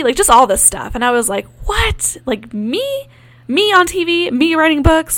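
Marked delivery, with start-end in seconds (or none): 1.7-5.2 much higher, incredulous questions; can't believe it's about me; stunned, retold disbelief. Medium's surprising prophecy.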